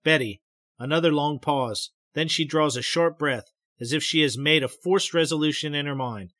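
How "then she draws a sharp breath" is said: ordinary delivery, nothing marked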